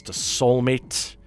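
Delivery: The Soulmate said slowly and stretched out; drawn-out title. Real, not acted. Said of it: "get the words in the right order".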